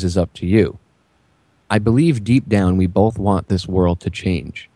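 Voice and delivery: deliberate reading with pauses between phrases; measured dramatic reading. Acted. Reading Neo's original phone speech to listeners, measured and deliberate. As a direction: read it out as a solemn speech, phrase by phrase. Reads out film's closing speech.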